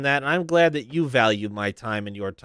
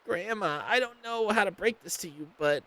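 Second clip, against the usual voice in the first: a bit higher, softer skeleton; hesitant skeleton; 7 semitones higher, 5 dB quieter than usual. Acted. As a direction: ease into bad news softly. Skelly hesitates.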